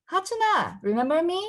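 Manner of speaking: high bright call across the room; a kid calling to an old camp friend. Acted. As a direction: shout a greeting to an old friend. Kid calls out her name.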